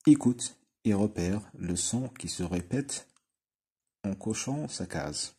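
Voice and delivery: very slow, careful classroom reading; slow instruction read. Shown as a demonstration. Teacher reading the exercise instruction, very slow. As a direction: read it out slowly for children. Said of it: "reads exercise instruction".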